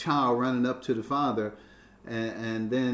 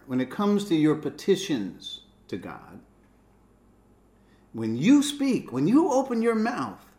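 Jesus quoted with force; 5 semitones higher, 6 dB louder than usual. Retold or imitated. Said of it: "He says".

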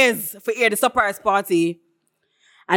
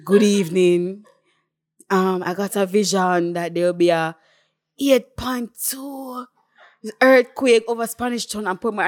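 slow, drawn-out mimicry of a vision announcement; imitating prophesying woman. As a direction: solemnly stretch the prophecy, lightly voiced. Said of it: "When the woman said".

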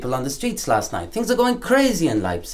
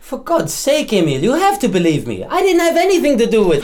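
loud and higher, begging to be believed; desperate pleading; 6 semitones higher, 6 dB louder than usual. Acted. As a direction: plead for your life. Accused man pleads innocence.

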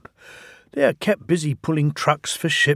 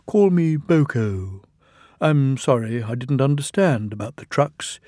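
smiling. Acted. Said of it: "he smiled".

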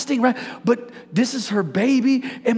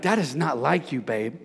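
low, soft mock aside to his wife; murmured joke to the wife; quiet teasing; 8 semitones lower, 5 dB quieter than usual. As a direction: tease her gently.

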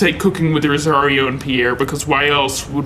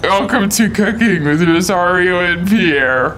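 slow host intro with a wide grin; big smiley host. Acted. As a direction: grin through the welcome. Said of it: "You're smiling too big".

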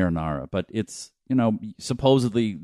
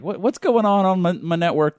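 Kevin Smith voice; 10 semitones higher, 4 dB louder than usual. Retold or imitated. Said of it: "the time he's like".

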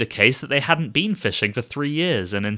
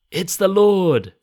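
higher, louder, slow amazed exclamation; excited recognition; 8 semitones higher, 6 dB louder, slower than usual. Retold or imitated. John realizing the man on shore is Jesus, excited. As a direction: let the realization burst out.

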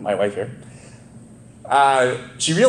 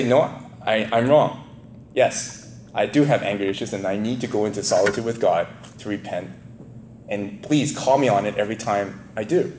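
softer, contrite and sincere; humble admission; 4 semitones lower, 3 dB quieter than usual. Pretend. Pastor acting out owning his anger, softer and contrite. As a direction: own it quietly, like a real apology. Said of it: "I could say".

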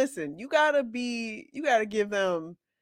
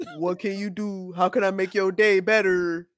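eager helpful phone agent; light scripted service voice; customer service voice; 3 semitones lower than usual. Pretend. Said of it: "customer service voice".

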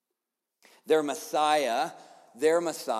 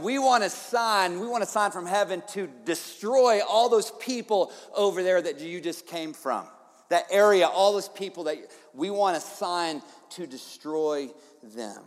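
demanding Pharisees; 2 semitones higher, 4 dB louder than usual. Retold or imitated. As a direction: demand it like a crowd that wants its enemies crushed. Pharisees demanding sign from Jesus.

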